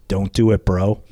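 flat, unbothered, no emotion in it; stone-faced big man shutting him down; deadpan warning. Retold or imitated. Shaq deadpan to rookie PR guy, no emotion. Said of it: "he looks at me and he says".

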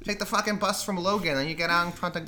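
lightly hammed Boston local; mock Boston accent. Shown as a demonstration. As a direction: give sweary directions in Boston accent. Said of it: "I can only lock into it".

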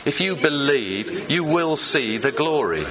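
slow, emphatic declaration with drawn-out words; leading a congregational recitation. Shown as a demonstration. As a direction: lead the room slowly, stretching each phrase. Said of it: "Let's say it again".

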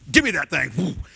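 snatch it up, no time to lose; a passenger desperate for the parachute; urgent demand. Retold or imitated.

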